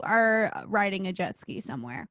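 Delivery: breathless unvoiced aside; whisper. Real, not acted. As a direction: drop to a whisper for the joke. Whispered joke.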